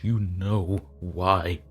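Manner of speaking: "You" stressed, very slow, falling; slow falling "You know why", loud and heavy; slow menacing repeat. Acted. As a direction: drag it out with cold bitterness. Man venting at ghostly tormentor.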